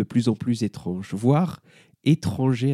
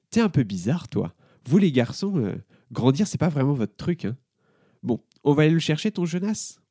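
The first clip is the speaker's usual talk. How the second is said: voix de jeune fille plus aiguë, moqueuse; Emma taquine; 4 semitones higher than usual. Acted. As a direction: une grande qui charrie un petit. (Emma se moque des garçons, voix aiguë)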